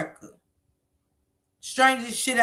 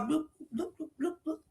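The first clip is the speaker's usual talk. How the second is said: fish bubbling noise; 4 semitones higher, 12 dB quieter, faster than usual. Shown as a demonstration. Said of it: "sound like they talk like fish".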